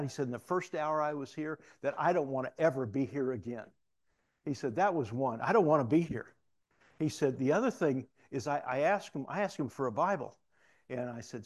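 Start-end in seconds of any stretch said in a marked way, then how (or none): 0.3-3.7 mildly excited retold testimony; animated. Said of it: "he becomes so animated". 4.7-6.3 retold inmate, emphatic and louder; animated. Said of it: "he becomes so animated". 7.4-10.4 mildly animated retold testimony. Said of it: "he becomes so animated".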